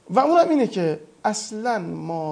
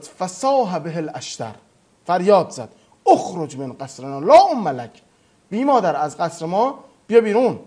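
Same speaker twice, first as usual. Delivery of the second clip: louder, forceful Arabic cry; retold shout; 5 dB louder than usual. Malik shouting at Abu Musa to leave his palace. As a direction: bellow the order to get out of the palace.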